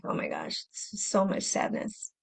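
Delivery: breathy whisper, weighed down; hushed, heavy-hearted whisper; whispered heavy sadness. Retold or imitated.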